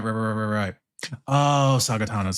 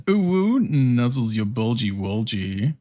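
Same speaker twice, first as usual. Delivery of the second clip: mock AI ad voice; slower than usual. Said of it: "A I ads that are".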